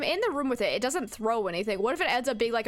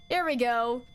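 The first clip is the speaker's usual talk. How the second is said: normal talking voice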